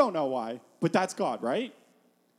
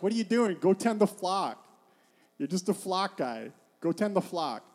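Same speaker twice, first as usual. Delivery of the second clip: mock scolding, higher at first; dismissive brother; 3 semitones higher than usual. David's brother sends him back to the flock, dismissive scolding. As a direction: brush off the kid brother. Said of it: "His brother's like".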